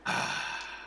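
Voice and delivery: long, soft exhale of relief; relieved sigh. Acted. Character back refreshed after venting, relieved sigh. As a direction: breathe out, all tension released.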